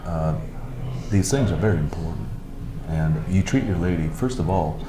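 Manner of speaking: Sam Elliott impression. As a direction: lean back and talk low and easy like the old cowboy. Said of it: "I think he does Sam Elliott gr-, really well".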